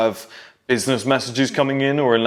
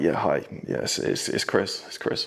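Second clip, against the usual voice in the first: hushed, breathy whisper; 6 semitones lower, 7 dB quieter than usual. Retelling answering the house phone in front of family, retelling a whisper. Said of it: "why are you whispering?".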